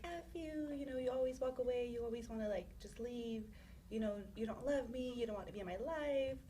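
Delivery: mock yell, starting high and easing down; retold angry yelling. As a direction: imitate an angry rant without real volume. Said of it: "he's yelling".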